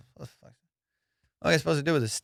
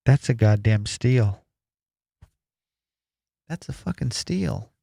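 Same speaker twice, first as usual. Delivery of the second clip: emphatic; 5 dB louder, slower than usual. Real, not acted. Gloating to audience.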